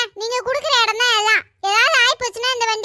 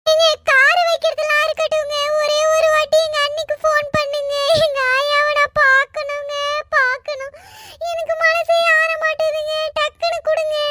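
tearful plea; 2 semitones higher than usual. Acted. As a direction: beg through tears for a phone call. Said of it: "இப்படிலாம் நீ அழுது பேசி".

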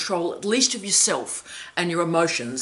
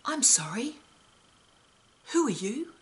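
soft, high, quizzical deadpan with rising ends; politely baffled, softly lilting up after a long pause; 6 semitones higher, 6 dB quieter than usual. Retold or imitated. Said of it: "he would deliver it completely deadpan".

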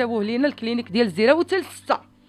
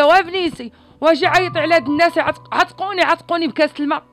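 louder and higher, pleading for rescue; retold desperate plea; 4 semitones higher, 6 dB louder than usual. Daughter relaying her father begging for water, louder and higher.

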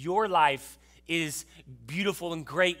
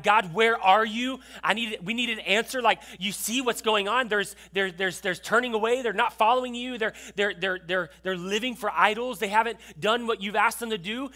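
louder, higher pleading complaint; crying out to God; 4 semitones higher, 4 dB louder than usual. Acted. Habakkuk crying out to God about the people, loud pleading. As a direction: plead with God, urgent and raised. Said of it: "He cries out to God".

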